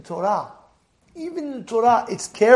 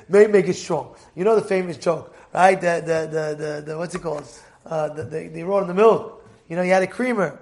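ordinary talk, nothing marked

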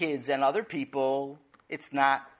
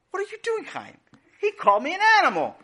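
put-on upset kid complaint; 9 dB louder, faster than usual. Father and brother quarrel.

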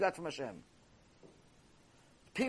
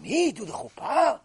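mock surprise; 4 semitones higher than usual. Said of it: "Such a surprise to me".

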